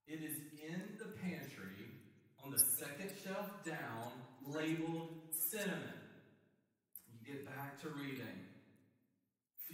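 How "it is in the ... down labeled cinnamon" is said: sighing reply. Acted. Annoyed answer with a sigh.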